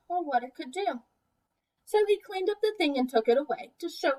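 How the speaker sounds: put-on gentle rhyming picture-book narration for young kids; storybook read-aloud. A narrator's reading. Teacher reading a picture book to preschoolers, storybook voice. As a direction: read the rhymes to the class with easy lilt.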